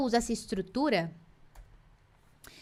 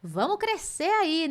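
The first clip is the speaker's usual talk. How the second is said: playful exhortation; 9 semitones higher, slower than usual. Real, not acted. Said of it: "teacher scolding playfully".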